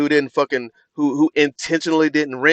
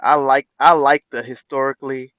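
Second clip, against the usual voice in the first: mocking Trump's delivery. Streamer mocking Trump's halting speech line, dragged-out mock delivery. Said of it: "why you gotta say it like that?".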